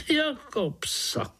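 high, slow theatrical cry; dramatic. A narrator's reading. Frog cries out dramatically to the boy, high and slow. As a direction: overplay it like a tragic diva. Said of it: "zvolala Rosnička dramaticky".

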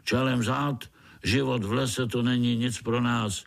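put-on old spider giving orders; lightly voiced old spider giving a command. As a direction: bark the retreat to his troop.

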